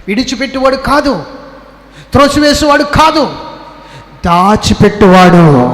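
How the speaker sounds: from firm to high, loud exultant cry; rising, shouted revival preaching; preaching building to full force. Acted. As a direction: build the sermon to a roaring peak. Preacher's emphatic closing cry.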